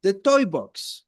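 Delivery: put-on slow, clear modelling for a child; slow model phrase. Shown as a demonstration. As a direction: say it slowly for a learner to copy. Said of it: "Repeat after me".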